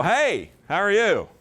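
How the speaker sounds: forthright, emphatic hello; walk right up and introduce yourself; direct greeting. Acted. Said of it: "just walk up and go".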